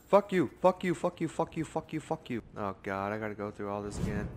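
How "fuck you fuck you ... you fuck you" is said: loud, high, furious repeated cursing; angry yelling. Real, not acted. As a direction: yell it at the game in rage. Startled by game trap, yelling.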